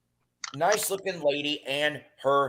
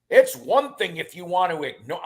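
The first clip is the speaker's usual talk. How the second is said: higher, indignant retold protest; retold too loud; 4 semitones higher than usual. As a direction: overdo the protest in the retelling. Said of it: "I was about half the volume".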